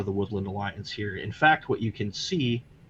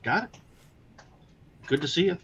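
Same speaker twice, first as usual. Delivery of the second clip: Midwestern farmer voice; 7 semitones higher, faster than usual. Acted. Farmer replies in voice.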